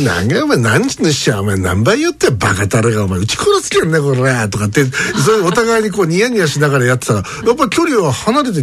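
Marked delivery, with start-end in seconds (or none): 0.1-4.2 mock tough Kumamoto dialect said with a grin; friendly Kumamoto-dialect banter with a rough edge; grinning Kumamoto-dialect mock quarrel. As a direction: play a fake Kumamoto quarrel while smiling. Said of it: "ニッコニコして".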